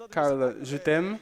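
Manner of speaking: slow, drawn-out je t'aime in a put-on Portuguese singer's accent; slow, crooned declaration in a put-on Portuguese accent; the singer's accent. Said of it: "Tu as aimé mon accent?".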